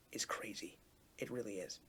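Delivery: soft, breathless whisper; awed whisper. Real, not acted. Fan reflecting on the episode whispers in awe. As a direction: drop to a hushed whisper in awe. Awed about depth of emotion.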